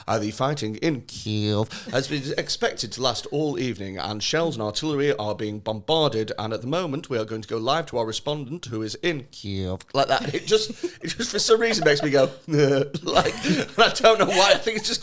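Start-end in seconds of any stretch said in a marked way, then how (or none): 0.0-9.8 British news bulletin voice with a lapse on "Kiev"; mock RP newsreader. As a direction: RP news read. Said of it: "break their accent for a second".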